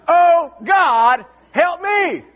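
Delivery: high, loud retold cry with a laugh; crying out to God. A preacher retells begging God mid-crash, high and loud. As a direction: relive the panic of the crash, half laughing. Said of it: "cry out".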